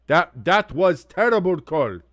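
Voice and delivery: hammed-up Eastern European: "That, that was terrible call."; a playful Eastern European accent with the article dropped. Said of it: "I turn Eastern European when I say that".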